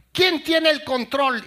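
put-on high, loud, slow child voice; little girl. Daughter asking her parents for the remote, high slow child voice. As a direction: ask like an eager little girl.

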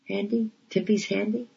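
put-on tiny high toddler voice; little girl. A narrator's reading. Shipwrecked toddler asking to hold a hand, small high child voice. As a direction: pipe up high like a two-year-old asking. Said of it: "held out her little hand to me and said".

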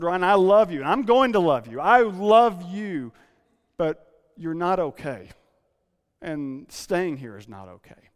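firmly, lovingly pressing the point; a retold wife's firm, loving warning; strong and firm. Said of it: "She delivered it very strongly".

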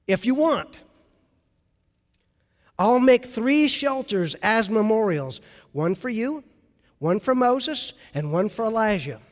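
eager, bright offer; thrilled, offering to build shelters; excited Peter. Retold or imitated. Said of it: "He's excited".

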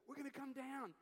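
high-pitched mock holler; playful imitation of calling from a roof; acted calling down. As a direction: call down cheerfully to a crowd below. Friends waving from the roof.

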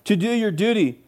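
high, driving sermon voice; impassioned preaching. Real, not acted. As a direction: preach the apostle's appeal with conviction. Preaches the letter with rising force.

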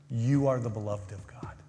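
soft tender repeat. Real, not acted. Repeated softer, gently.

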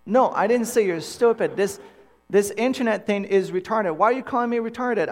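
high, loud exasperated bickering; retold quarrel. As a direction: act out a heated lovers' spat. Acted couple's quarrel over video calls.

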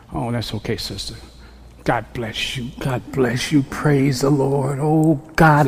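ministering. Retold or imitated. Minister consoling a sister who apologized, gently reassuring. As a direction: gently comfort and bless her. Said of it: "saw a chance to minister".

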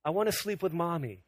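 hint of a little girl asking for mom; toddler daughter. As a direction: lightly imitate a toddler's plea. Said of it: "Manny would say in Korean".

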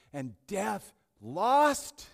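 slow, loud, rising high proclamation; triumphant declaration. Acted. Pastor declaring death's defeat, slow and loud triumph. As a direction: drag each word out in triumph.

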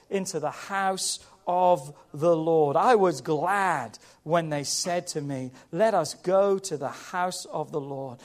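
low, measured psalm recital; slow, deliberate Bible verse; scripture reading. Acted. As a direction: read the verse low and unhurried. Reads psalm to congregation.

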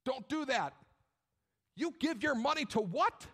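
high, scandalized mock scolding; scold, rising to an incredulous question; disapproving relatives. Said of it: "non-believing relatives in your life".

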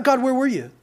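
high-pitched mock reproach to God; frustrated complaint. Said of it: "with this thing of like".

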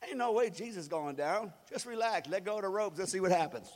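easy, low, settling voice; laid-back reassurance. Acted. Disciple with a happy thought to crewmates, relaxed reassurance. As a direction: talk the crew down from panic. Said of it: "got their happy thought".

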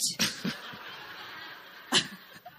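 high airy laugh; real laughter. Real, not acted. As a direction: burst into giggles. Laughing at the compliment.

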